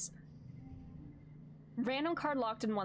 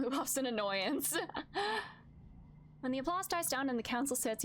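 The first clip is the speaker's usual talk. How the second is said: ordinary delivery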